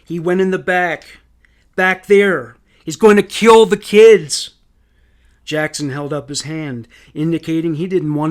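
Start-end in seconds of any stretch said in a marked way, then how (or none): 0.1-4.6 higher, louder, urgent alarm; panicked cry for help, building to the last words; frantic. A narrator's reading. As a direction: plead urgently as if lives depend on it. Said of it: "Elizabeth was frantic".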